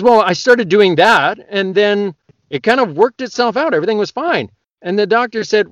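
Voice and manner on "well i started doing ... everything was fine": patient voice. Acted. Joke, patient explains.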